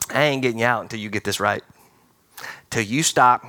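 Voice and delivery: low, quick, lightly voiced God; God laying down terms. God to the children of Israel in the desert, low and firm. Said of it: "God's going".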